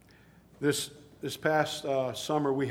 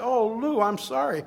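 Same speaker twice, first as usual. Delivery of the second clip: dismayed exclaim; 6 semitones higher, 6 dB louder than usual. Retold or imitated. Retold dismay at friend's news.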